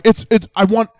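mock musician. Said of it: "they're like".

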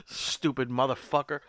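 giggling mock insult at a friend; laughing insult. Real, not acted. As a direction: laugh it out at your buddy.

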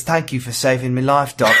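put-on eloquent British accent; mock-refined British English. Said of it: "eloquent British accent".

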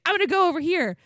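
high, loud imitation of his outburst; dramatic mock yell. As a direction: play his meltdown hammed-up and yelled. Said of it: "goes into this whole dramatic".

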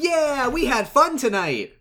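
slow, very high cheering; mock triumphant. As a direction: whoop it out loud and stretched. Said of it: "walk in really triumphant".

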